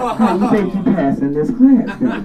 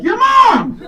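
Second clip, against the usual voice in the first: student yelling insult; 5 dB louder than usual. Retold or imitated. Student yells back.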